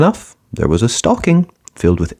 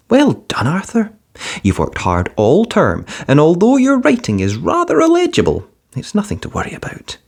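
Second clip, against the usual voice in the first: a hint of a proud father, pitched up; lightly voiced Dad; 9 semitones higher than usual. A narrator's reading. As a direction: read it as Dad, pleased but mild. Dad praises report.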